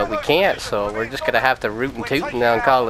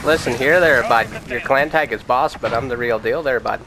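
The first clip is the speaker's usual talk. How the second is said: put-on Canadian hoser accent. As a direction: play it like a small-town Canadian hockey guy. Hoser banter while gaming.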